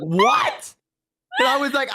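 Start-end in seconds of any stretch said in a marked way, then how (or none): 0.0-0.7 shocked what. Retold or imitated. Reacting to dad saying he isn't polite, mock-shocked. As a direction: squeak out the shock.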